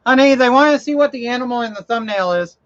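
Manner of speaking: quick, high-pitched call to the next room. Real, not acted. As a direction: call your question through to your wife. Calling wife in other room.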